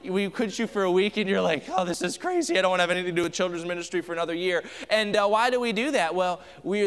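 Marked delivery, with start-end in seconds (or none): 1.7-4.6 mock exasperated volunteer. Volunteer worn out after Bible school.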